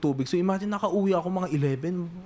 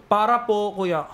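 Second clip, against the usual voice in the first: mild retold call to a driver; polite call out; 3 semitones higher than usual. Passenger asking the jeep driver to stop, politely calling. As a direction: ask the driver to stop, lightly.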